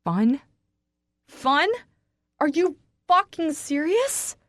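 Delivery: high, loud scream. A narrator's reading. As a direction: scream in disbelief. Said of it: "I scream so loudly".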